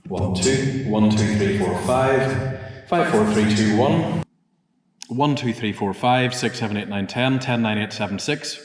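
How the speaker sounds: steady counting into the microphone; mic check. Real, not acted. Engineer testing the microphone, counting steadily. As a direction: count evenly to test the mic.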